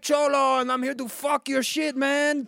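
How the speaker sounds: high, loud swaggering cholo voice; white cholo. Acted. Fan at the game calling a rival out, loud cholo swagger. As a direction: puff up and call him out, loud. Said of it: "number one white cholo".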